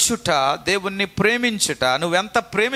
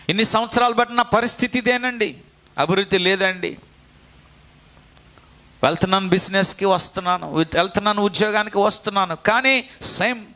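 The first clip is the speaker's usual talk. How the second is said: complaining believer; 3 semitones higher than usual. Retold or imitated.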